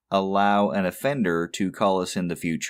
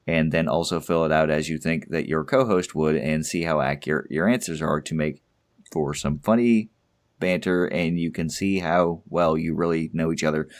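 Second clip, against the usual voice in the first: out of breath; 3 semitones lower than usual. Real, not acted. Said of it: "I was running out of breath".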